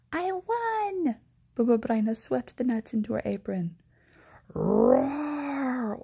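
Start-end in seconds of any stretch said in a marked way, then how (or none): 0.1-1.2 much higher gleeful cry; delighted. Acted. Baba Braina wins the dreidel game, gleeful cry. 4.5-6.0 loud hammed-up roar; bear roar. Old Bear loses at dreidel, loud roar. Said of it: "Old Bear roared".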